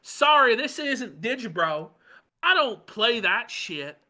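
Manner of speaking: high smug mock voice; mocking Ralph. Host continuing Ralph's boast in a high mocking voice. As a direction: dismiss them with fake grandeur. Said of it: "this is Ralph being harassed".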